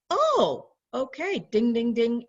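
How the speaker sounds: a light-bulb moment; realization. Retold or imitated. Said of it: "that I went".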